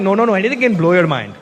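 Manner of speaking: put-on Indian-accented fan insisting on the point; emphatic Indian accent. Fan explaining the compliment, emphatic Indian accent. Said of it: "so emphatic with their compliments".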